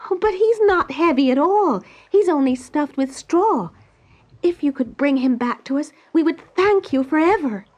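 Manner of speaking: pleading eagerly for her friend; Dorothy begging the stork for help; young Dorothy. Acted.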